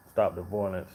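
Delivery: usual speaking voice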